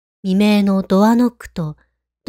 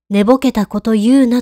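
angry; 2 semitones higher, 4 dB louder than usual. Retold or imitated. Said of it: "とキレられました".

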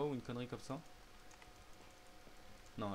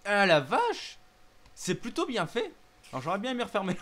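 scared horror game streamer; 8 semitones higher, 12 dB louder than usual. Real, not acted. Jump scare in the mansion.

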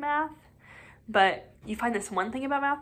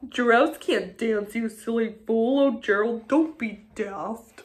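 jeering taunt; 4 dB louder than usual. Acted. Animals jeering at Gerald.

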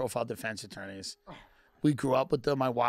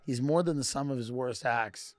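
sway the jury like a slick lawyer; a hammed-up closing argument, slowing for effect; mock defense attorney. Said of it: "he's acting like the attorney of a rapper".

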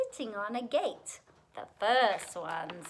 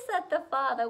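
put-on lilting rhymed storytelling for children; animated children's story reading; story narration; 3 dB louder than usual. A narrator's reading. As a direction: read a picture book aloud in rhythm. Reads a rhyming picture book aloud.

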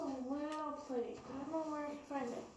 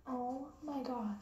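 excited; much slower than usual. Real, not acted. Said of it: "You got so excited".

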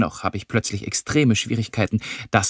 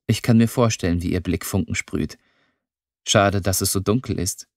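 plain reading voice

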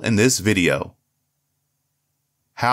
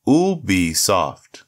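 slow syllable by syllable; 5 semitones lower, much slower than usual. Shown as a demonstration. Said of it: "break it down syllable by syllable".

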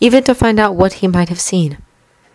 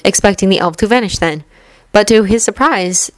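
plain reading voice

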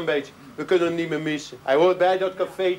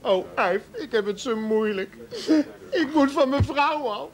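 higher, desperate whine; whiny husband; 7 semitones higher than usual. Acted. Man begs his friend Yves for help to get rid of his wife, higher whine. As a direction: plead like a henpecked husband at the end of his rope.

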